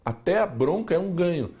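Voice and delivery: ordinary talk, nothing marked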